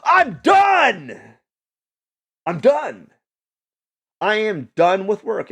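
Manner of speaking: high, loud mock cheer of being finished; hammed-up victory yell; Adam Sandler in Click. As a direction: shout it like you just skipped the whole day.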